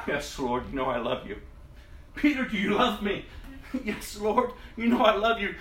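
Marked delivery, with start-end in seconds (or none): 2.1-3.2 more insistent. Acted. Question repeated, more insistent. 3.8-5.5 more insistent. Acted. Answer repeated, rising urgency.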